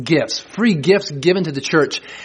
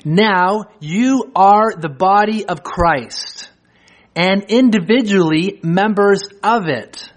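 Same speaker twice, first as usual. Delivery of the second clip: slow, measured reading of scripture; deliberate scripture reading; 3 semitones higher, slower than usual. Acted. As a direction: read each gift out like a list from the pulpit. Reads scripture passage aloud.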